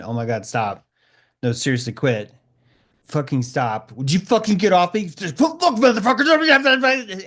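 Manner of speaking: starts annoyed, ends roaring, dragged out; playful protest swelling into a furious shout; building to furious yell. Acted. Someone being tickled begs, then yells at them. Acted tickling victim losing patience.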